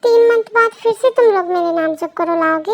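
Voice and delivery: loud, indignant question; acted angry outburst; angry protest. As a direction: protest loudly on your baby's behalf. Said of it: "गुस्सा मत करो".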